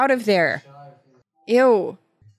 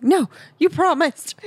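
high, whiny mock protest; playful higher-pitched complaint; 10 semitones higher than usual. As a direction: whine like a kid who was promised no more ads. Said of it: "I was like".

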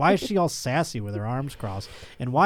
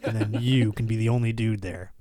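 lower, softer laid-back cool-guy murmur; smooth ladies' man; 4 semitones lower, 4 dB quieter than usual. Retold or imitated. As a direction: play it as the chill cat who always has girls. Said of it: "He's always like".

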